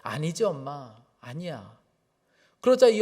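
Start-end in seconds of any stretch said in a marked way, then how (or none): 0.0-1.8 low, soft voicing of a child; child objecting. Young son answering his shouting mother, softly retold objection. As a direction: gently imitate a little boy contradicting his mother. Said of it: "이 아이가 듣고 있다가 엄마한테 그러는 거예요".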